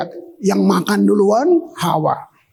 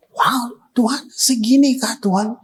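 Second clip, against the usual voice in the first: awed whisper; 3 semitones higher than usual. Retold or imitated. Preacher's awed reaction, whispered.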